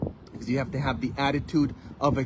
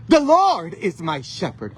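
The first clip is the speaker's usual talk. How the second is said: raised, loud proclamation of faith; preaching; 4 semitones higher, 7 dB louder than usual. Real, not acted. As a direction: proclaim it boldly from the pulpit. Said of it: "Do I feel like preaching".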